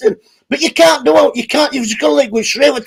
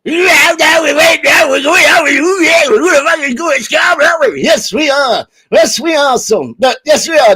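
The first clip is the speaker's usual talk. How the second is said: hammed-up old man; 4 semitones higher, much faster than usual. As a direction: splutter like the dad. Dad character answers, stammering.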